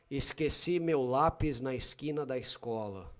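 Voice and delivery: Paulista accent, plain hissed S in esqueci, lápis, escola; São Paulo accent. Shown as a demonstration. Showing a listener how Paulistas say it, São Paulo accent. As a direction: say it like a Paulista, S as a clean "s". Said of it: "Paulistas will say".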